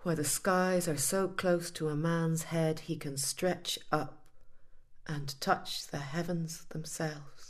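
slow, fading lyrical delivery; slow poetic recital. Acted. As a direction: savour each image slowly. Poetic evocation.

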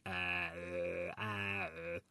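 "Ah" shifting to "uh" as the tongue moves out. Shown as a demonstration. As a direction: say "ah, ah, uh" while sticking the tongue out midway. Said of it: "then stick your tongue out midway".

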